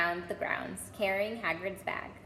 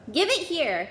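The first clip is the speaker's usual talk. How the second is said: high loud call; loud demand; 7 semitones higher, 6 dB louder than usual. A narrator's reading. Harry demanding the ball from Malfoy, loud call. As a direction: demand it back. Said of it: "Harry called".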